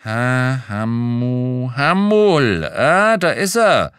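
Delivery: drawn-out syllables climbing to a loud discovery; searching, then loud high 'aha'; triumphant find. A narrator's reading. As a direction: sound out the name, then burst out on finding it. Clerk finds the searched name.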